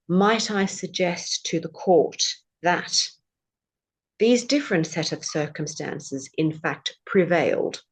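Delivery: slow, measured courtroom politeness; mock-formal legal submission; polite barrister. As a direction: address the judge with lofty courtesy. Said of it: "say it very politely".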